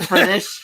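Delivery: "British" said with F for B, as Fritish; coined mispronunciation. Shown as a demonstration. Naming a bad fake British accent, "British" said as Fritish. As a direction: start "British" with an F sound: Fritish. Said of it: "It's a fake ass British accent".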